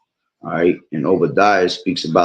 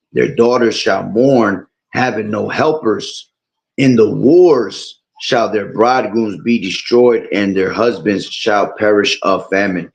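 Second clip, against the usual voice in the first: scripture reading. Acted. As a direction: read it like a preacher. Reads scripture aloud.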